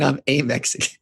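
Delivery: a hammed-up Mexican accent; bad Mexican accent. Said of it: "the worst Mexican fucking accent".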